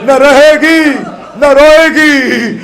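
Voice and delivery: high, loud, slow mournful line; lamenting sermon cry; grieving lament. Acted. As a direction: draw out the final words in sorrow. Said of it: "امام کہتے ہیں".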